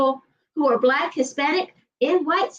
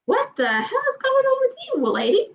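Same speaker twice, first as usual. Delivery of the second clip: high-pitched imitated Hispanic accent; mock a riled Hispanic friend, pitched way up; friend's angry accent; 11 semitones higher than usual. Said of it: "when her accent changes".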